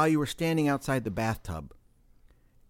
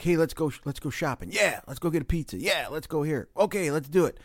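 gung-ho buddy, a bit higher; 4 semitones higher than usual. Acted. Friends agreeing on shopping and pizza, gung-ho. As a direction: pitch in eagerly, mildly acted. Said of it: "you're all gung-ho".

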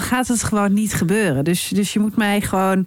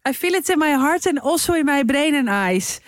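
higher, hammed-up heartfelt English; mock art lover; 6 semitones higher than usual. Co-host stretching the art joke, mock art lover. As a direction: pretend art rapture.

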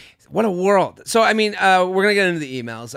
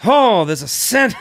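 sommelier tasting notes; 3 semitones higher than usual. Pretend. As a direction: savor it like a pompous sommelier. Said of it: "talking like a Dick Smollier".

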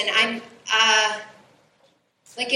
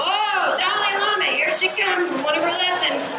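mock self-mockery; 5 semitones higher than usual. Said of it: "now I'm".

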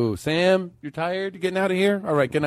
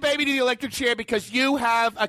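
high, booming mock verdict; hammed-up courtroom judge; pompous judge; 5 semitones higher than usual.

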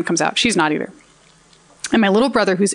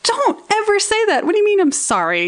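high-pitched mock exasperation; indignant retort; 13 semitones higher than usual. Daughter silently scolding dad after crash, acted high indignation. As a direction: scold him in a raised pitch. Acting out angry thoughts at dad.

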